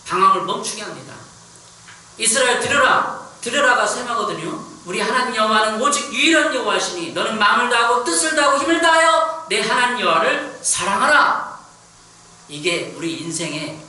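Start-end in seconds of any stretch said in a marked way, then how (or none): 2.2-11.6 loud, high preaching voice; ringing pulpit recitation at full force; scripture proclamation. Acted. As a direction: proclaim the commandment to the whole congregation.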